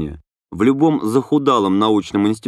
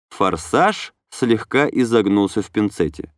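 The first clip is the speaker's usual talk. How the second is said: ordinary delivery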